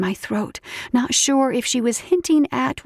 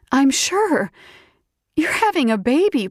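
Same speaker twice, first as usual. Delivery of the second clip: excited; 5 semitones higher than usual. Acted. Friend confirms pregnancy.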